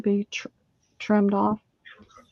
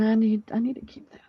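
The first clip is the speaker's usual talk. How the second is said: whispered inner voice; 3 dB quieter, faster than usual. Retold or imitated. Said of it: "I keep thinking".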